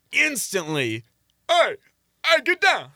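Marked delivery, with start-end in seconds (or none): 1.5-2.9 high, loud mock yell from staff; sharply raised, louder imitated holler; imitated shout. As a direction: shout it like staff halting someone. Club staff halting Max onstage.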